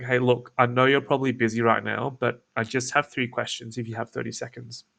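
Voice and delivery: relaxed, a little hesitant; like you don't really care; casual uncaring. Shown as a demonstration. To the lead, casual and hesitant. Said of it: "as if I don't really care".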